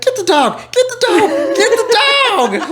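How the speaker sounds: high, loud, frantic Get the dog; frantic yell. Retold or imitated. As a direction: shout it in panic at the wife. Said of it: "he's like".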